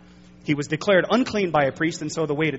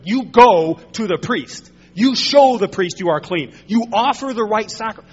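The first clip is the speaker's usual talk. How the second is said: emphatic command; 3 semitones higher, 6 dB louder than usual. Acted. Preacher voicing Jesus ordering the healed leper, emphatic and loud. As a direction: lay down the order word by word. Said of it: "Jesus is very emphatic here".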